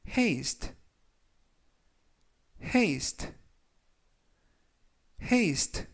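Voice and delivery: haste said clearly, rising each time; 또박또박 haste 발음 시범; demo pronunciation. Shown as a demonstration. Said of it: "라고 발음하시면 되겠습니다". (점점 높게 haste 시범)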